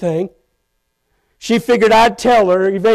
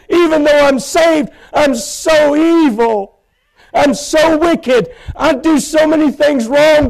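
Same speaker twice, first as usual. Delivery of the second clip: higher pleading prayer with sudden shouted words; retold tearful prayer; 4 semitones higher than usual. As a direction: cry out to God, unworthy and broken. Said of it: "I wept and I cried".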